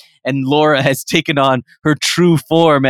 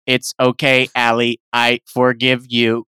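calm forgiveness; 7 semitones lower than usual. Acted. Laura answers Allie.

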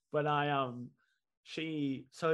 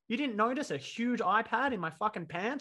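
outraged disbelief; 6 semitones higher, 5 dB louder than usual. Retold or imitated. Retold outraged question to sister.

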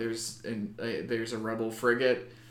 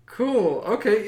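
mock excited awe; 8 semitones higher, 7 dB louder, much slower than usual. Retelling awe in cockpit.

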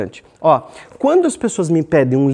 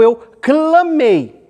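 loud, high, drawn-out proclamation; ringing, emphatic cry; crying out forcefully; 8 semitones higher, 4 dB louder, much slower than usual. Shown as a demonstration. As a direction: call it out with great force. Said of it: "falar alguma coisa com muita força, com muita entonação".

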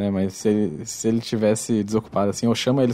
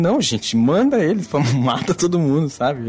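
angry; 5 semitones higher, slower than usual. Retold or imitated. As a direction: rant like you want them all dead. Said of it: "Eu tava puto".

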